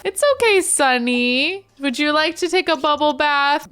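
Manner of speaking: put-on high, gentle coo to a baby; soothing coo.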